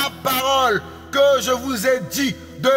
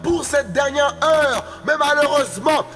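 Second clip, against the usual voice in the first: raised, ringing proclamation of the divine name; fervent proclamation; 3 semitones higher than usual. Real, not acted. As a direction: cry each name out like a herald. (proclamation fervente, à pleine voix)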